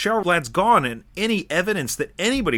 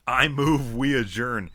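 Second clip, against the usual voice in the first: slow, grave final words; solemn one-liner; slower than usual. Pretend. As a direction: deliver it like a last line. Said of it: "you should use that one".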